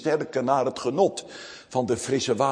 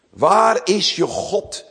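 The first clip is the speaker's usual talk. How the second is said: taunting, louder, with a sneer; sarcastic taunt; 5 semitones higher, 5 dB louder, slower than usual. Retold or imitated. Preacher quoting the enemies' taunt, sneering and loud. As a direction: throw the question at him like a jeer. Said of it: "dit sarrend uitgesproken".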